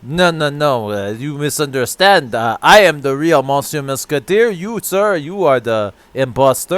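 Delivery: low, insistent mock Quebecois accent; measured fake French-Canadian accent. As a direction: correct them as a put-on Quebecois Frenchman. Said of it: "Quebecois, okay".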